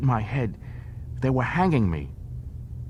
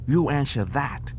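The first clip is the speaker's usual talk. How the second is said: higher, challenging Ferengi voice; a sly dare to Odo; Quark bargaining; 5 semitones higher than usual. Acted.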